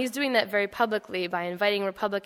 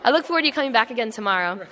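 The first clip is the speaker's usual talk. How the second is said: loud, brisk military reply; mock-formal soldier, louder; snapping to attention; 6 dB louder, faster than usual. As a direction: stand tall and bark it out cheerfully. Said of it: "I snapped to attention and said".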